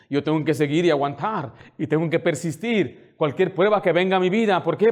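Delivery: emphatic, driving preacher's voice; impassioned preaching. Real, not acted. Pastor vowing to endure for wife and daughters, fervent preaching. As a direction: press on with fervent resolve.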